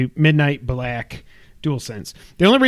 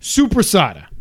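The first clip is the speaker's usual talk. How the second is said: lightly imitated New Yorker; name the meat in a mock New York accent; 2 semitones higher than usual. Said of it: "He said".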